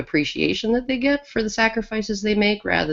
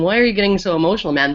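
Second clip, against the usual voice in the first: rapid mock question; much faster than usual. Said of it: "They don't tell him".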